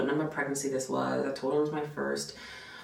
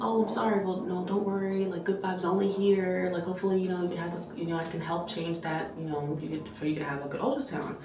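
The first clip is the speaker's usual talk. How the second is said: reassuring; 4 semitones higher than usual. Retold or imitated. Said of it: "sounds exactly how I would speak".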